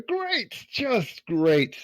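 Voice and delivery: very slow, forced calm through teeth; through gritted teeth. Acted. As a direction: bite back anger, spit it slowly. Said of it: "through gritted teeth".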